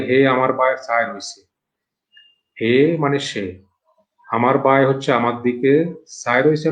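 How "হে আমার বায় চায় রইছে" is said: plain voice, Sylheti regional speech; Sylheti dialect. Shown as a demonstration. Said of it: "সিলেটে এটাকে বলে".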